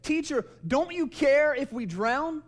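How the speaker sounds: loud, high, drawn-out cry; alarmed plea. Acted. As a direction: cry out slowly over a storm. Disciples wake Jesus in the storm.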